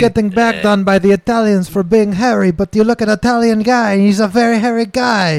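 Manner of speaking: indignant mock Portuguese rant; fake Portuguese accent. Complaining about Italians in a fake Portuguese accent. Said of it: "racially ambiguous fucking accent".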